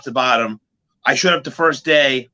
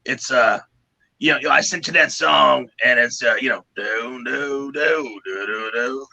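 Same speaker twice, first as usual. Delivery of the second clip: lightly voiced gravel-throated guitarist mumbling a tune; Kirk Windstein voice. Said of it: "I'm gonna do an impression if I can".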